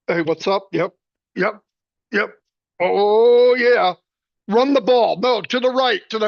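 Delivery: hammed-up sideline coach shouting plays mid-talk; imitating the coach. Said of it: "You know why I call him the coach?".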